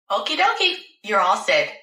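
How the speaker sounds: a hint of chirpy nurse, starting high; lightly voiced nurse. Nurse sending the patient off, lightly chirpy. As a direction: lightly play a nurse's high sing-out send-off.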